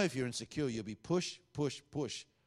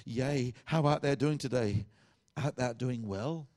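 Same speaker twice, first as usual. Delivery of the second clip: mock spiritual; slower than usual. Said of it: "all spiritual all the time and say".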